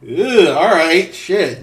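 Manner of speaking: grossed-out groan. Retold or imitated. Viewer reacting to a brutal scene, slow loud disgusted groan. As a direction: drag it out like you just watched something gross. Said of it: "it's very much that".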